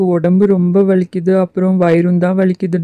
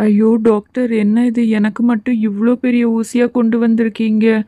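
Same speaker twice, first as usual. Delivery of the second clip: put-on panicked child; 4 semitones higher than usual. Ram pleads with the doctor about the big injection, higher frightened voice. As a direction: beg to escape the big needle. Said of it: "Ram எப்படி கத்துறான்".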